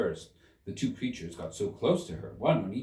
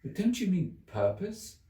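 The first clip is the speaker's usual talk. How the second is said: Alice's puzzled voice; 10 semitones higher than usual. Acted. Alice's puzzled question, high.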